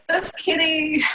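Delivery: high-pitched, voiced joking take-back; playful singsong. Real, not acted. Repeats the joke aloud.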